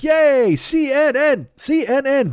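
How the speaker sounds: loud, high-pitched sports-fan chant; mock fan cheering. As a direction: cheer it like a rowdy football crowd. Mimics fans cheering like football.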